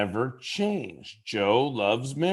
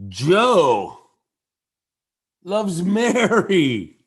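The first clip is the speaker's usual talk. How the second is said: big, drawn-out proclamation with a high swoop; stretched, exclaimed announcement; loud exclamation; 6 semitones higher, 6 dB louder, much slower than usual. Shown as a demonstration. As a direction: draw it out loud and high, pausing after the name. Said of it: "say those same three words in a way".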